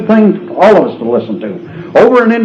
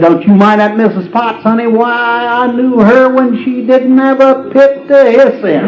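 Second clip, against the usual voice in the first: catty mama snake; 9 semitones higher than usual. Retold or imitated. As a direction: soothe the baby, then twist the knife. Mama snake comforts, then gets catty.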